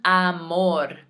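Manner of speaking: "amor" with a wide open Spanish "ah"; Spanish "amor", clear open A; open-mouthed Spanish vowel. Shown as a demonstration. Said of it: "Notice when I say it, I have to open my mouth wide".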